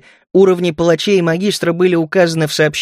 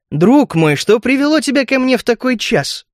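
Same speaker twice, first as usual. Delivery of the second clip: higher, welcoming question; smiling exclamation; 6 semitones higher than usual. A narrator's reading. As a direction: greet an old friend with lifted voice. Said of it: "улыбаясь, воскликнул я".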